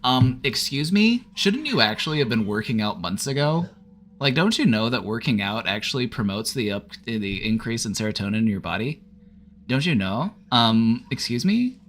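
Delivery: mock-indignant Karen with rising questions; hissy Karen, loud on the "um". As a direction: scold like an affronted Karen, questions swooping up. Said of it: "Or a hissy Karen, another good suggestion".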